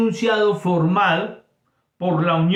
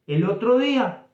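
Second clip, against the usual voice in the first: "otro" stressed and higher, falling at the end; separate intonation; 6 semitones higher than usual. Shown as a demonstration. Teacher showing the phrase's own intonation. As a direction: set "El otro día" apart with its own falling tune. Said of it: "tiene otra entonación".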